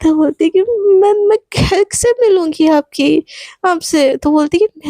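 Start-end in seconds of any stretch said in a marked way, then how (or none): 0.6-4.1 tearful question. Acted. Crying girl asks how to meet.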